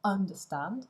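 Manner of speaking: understand with the stress wrongly on UN; slow, punching the first syllable UN of understand; deliberately mis-stressed UNderstand. Shown as a demonstration. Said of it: "l'accent n'est pas sur la première syllabe".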